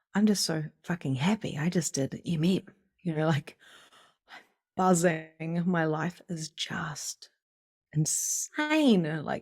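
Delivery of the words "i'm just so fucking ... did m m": ordinary talk, nothing marked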